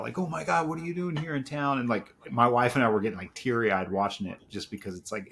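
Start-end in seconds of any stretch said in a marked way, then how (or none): 0.2-1.8 high, thrilled fan voice; a fan spotting Cliff in town; imitating an excited fan. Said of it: "people ... freaking out".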